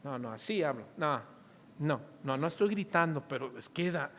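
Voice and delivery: más grave y bajito, excusándose; negación de padre imitada. Retold or imitated. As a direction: imita a un papá que niega haber gritado. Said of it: "estás gritando". (excusa en voz baja)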